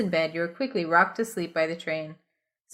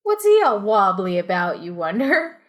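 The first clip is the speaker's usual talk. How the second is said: higher, louder Australian voice; a mild Australian accent; put-on Aussie; 6 semitones higher, 5 dB louder than usual. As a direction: lay on the Australian slang. Australian slang inner voice.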